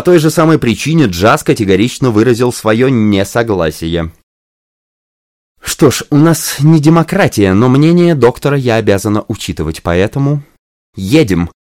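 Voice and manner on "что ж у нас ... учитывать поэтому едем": hiding a smile. Acted. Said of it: "стараясь скрыть улыбку".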